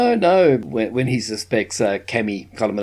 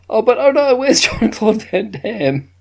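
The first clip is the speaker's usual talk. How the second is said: high, louder fake gasp of worry; mock alarm; 11 semitones higher, 4 dB louder than usual. Mocking the movie's fake suspense, in high mock alarm. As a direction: play up the fake panic.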